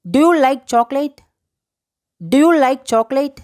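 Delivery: slow, measured teacher demonstration; slow model phrase. Shown as a demonstration. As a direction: say it slowly for learners to repeat. Teacher models English phrase to repeat.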